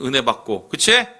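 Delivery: usual speaking voice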